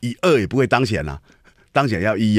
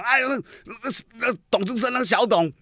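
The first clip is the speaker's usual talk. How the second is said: higher, slow, hesitant mock voice; imitating the Curator; 11 semitones higher, 4 dB quieter than usual. Mocking the Curator's reply about Xiao Dong, high and slow. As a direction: stammer it like a flustered man dismissing a critic. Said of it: "他，他还对人讲".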